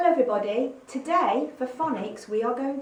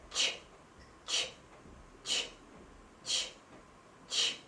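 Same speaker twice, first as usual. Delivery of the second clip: short soft ch bursts; train-like ch puffs; ch sound; 9 dB quieter than usual. Shown as a demonstration. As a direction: puff out quiet ch sounds. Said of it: "The second sound is".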